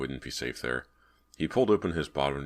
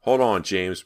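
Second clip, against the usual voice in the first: breathless call; 4 semitones higher, 8 dB louder, slower than usual. A narrator's reading. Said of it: "Brant called breathlessly".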